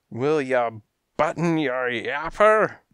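high, loud gangster rebuke; angry interruption. A narrator's reading. Cat boss silences his thug, angry. Boss cuts off henchcat angrily.

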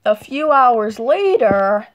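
slow, drawn-out caption read; time-card announcer. A narrator's reading. Narrator announces a jump to bedtime, slow and drawn out.

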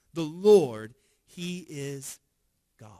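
the crowd crying out the Lord's name, a loud proclamation; proclaiming. Retold or imitated. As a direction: LORD rings out loud, then settles. Crowd's confession repeated, rising.

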